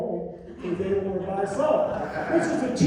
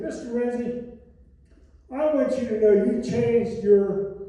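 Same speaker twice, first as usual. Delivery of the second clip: imitating an emphatic, louder telling-off; Julia Child scolding; 3 semitones higher, 6 dB louder than usual. Cook phones the executive about changed frying oil, emphatic mock scolding. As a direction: declare it loudly, as a retold rebuke.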